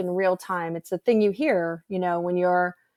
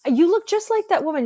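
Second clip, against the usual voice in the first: emphatic; 10 semitones higher, 5 dB louder than usual. Retold or imitated. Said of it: "She said".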